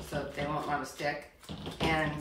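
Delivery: ordinary delivery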